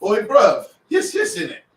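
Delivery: high, hammed-up Cockney lad accent; laughing British geezer impression; mock British accent. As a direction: play a cheeky London bloke in a Cockney accent. Reads British meme in accent.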